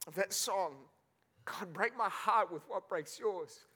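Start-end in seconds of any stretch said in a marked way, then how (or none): 1.4-3.6 choked up, slow and halting; real tearful. Real, not acted. Preacher recalling the song God brought back, tearful. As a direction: hold back tears, pausing between phrases. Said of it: "you don't look at me again crying".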